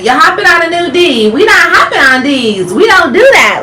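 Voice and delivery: high, loud mock of the critics; lightly mocked critics voice. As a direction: parrot the haters then shoot them down. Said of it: "y'all love to say".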